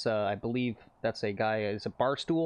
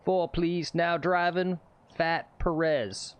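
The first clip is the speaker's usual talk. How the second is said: golf tee announcer; 5 semitones higher, much slower than usual. Pretend. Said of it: "That would piss off the traditionalists".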